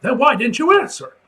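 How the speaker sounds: a touch of boss impatience; mild irritated demand. Acted. Editor snaps loudly at Peter for ignoring him.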